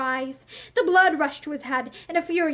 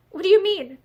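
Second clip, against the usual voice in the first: fearful; 4 semitones higher, 4 dB louder than usual. Acted. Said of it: "she asked fearfully".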